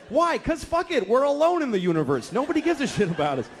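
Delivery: exasperated dad losing it; building rant. Retold or imitated. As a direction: let it boil over. Escalating rant answers.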